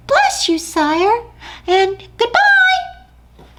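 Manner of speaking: eager tiny mouse; brave little mouse. Acted. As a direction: puff up small and bold. Mouse voiced in story.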